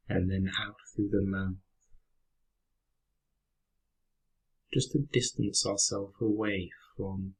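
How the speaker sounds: calm, unhurried meditation guide with long pauses; guided meditation. Real, not acted. Teacher guiding listeners through a breathing exercise, calm meditation voice. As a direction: lead them gently through the breath, leaving space after each phrase.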